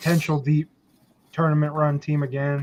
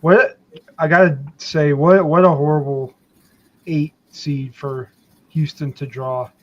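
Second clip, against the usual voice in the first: headphones used as mic; 3 dB louder than usual. Real, not acted. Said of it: "are you talking through headphones or something".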